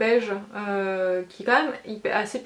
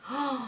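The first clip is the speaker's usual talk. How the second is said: awed little "oh"; ecstatic gasp; 3 semitones higher, 6 dB quieter than usual. Real, not acted. Vlogger admiring an eyeshadow swatch, ecstatic gasp. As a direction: breathe out a delighted oh. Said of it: "je suis en extase devant ce".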